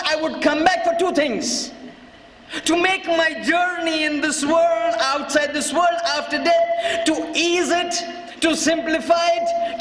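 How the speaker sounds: measured, emphatic sermon retelling; drawn-out key phrases with earnest weight; impassioned preaching. Retold or imitated. Mother answering her son from beyond the grave, impassioned preaching. Preacher voices Bibi Maryam.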